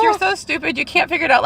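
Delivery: woman imitating how she berated herself in the mirror, mock scolding; mock self-scolding. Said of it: "I started kind of yelling at myself".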